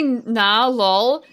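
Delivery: loud mock Aussie "nah lol"; Australian accent. Streamer asking if Australians sound like narwhal, mock Aussie accent. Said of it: "when Australians say".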